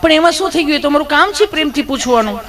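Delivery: high, sugary nurse voice, teasing; sweet nurse voice. Acted. Nurse sweetly questions nervous Gabho, high cooing voice. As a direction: coo at him like an overly sweet nurse.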